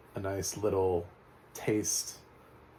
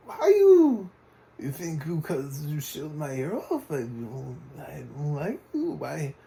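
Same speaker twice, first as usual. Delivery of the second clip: much higher and louder, a hammed-up foreign accent mocking the Croat; the Croat's odd accent; 9 semitones higher, 8 dB louder, slower than usual. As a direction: squeal it out in an exaggerated strange accent, slow and pleading. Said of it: "What is this dude's accent?".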